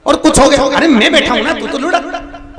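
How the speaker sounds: high, loud, laughing reassurance; laughing coax. Acted. Saint laughs at seth, urging him to drop. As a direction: laugh while egging him on.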